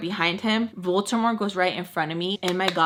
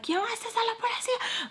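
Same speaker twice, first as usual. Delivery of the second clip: retold scream; 6 dB quieter than usual. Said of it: "screaming like psycho".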